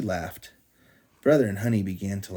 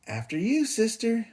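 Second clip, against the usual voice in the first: nicely; 13 semitones higher than usual. Acted. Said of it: "said Brother nicely".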